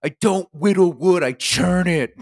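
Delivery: high, loud mock Maine twang; coastal Maine accent. Podcaster correcting as the woodworking friend, loud high Maine accent. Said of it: "he talks all fucking weird".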